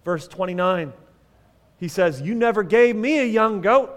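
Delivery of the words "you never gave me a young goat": put-on mildly aggrieved older brother; a touch of acted indignation; acted resentful complaint. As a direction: complain like a slighted son. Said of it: "That's how he said it".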